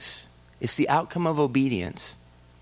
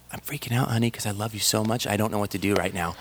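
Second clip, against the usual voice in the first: quick, breathless gush of love to his wife; giddy gush; 3 semitones lower, 3 dB quieter, faster than usual. Retold or imitated. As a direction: retell the overexcited moment, rushing it. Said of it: "one of those moments where I'm like".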